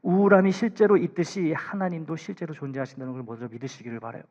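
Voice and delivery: ordinary talk, nothing marked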